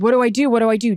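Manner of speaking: quick, keyed-up repeat of the question; eager panic. Retold or imitated. Asking husband what to do with the full bag, retold eager urgency. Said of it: "I said".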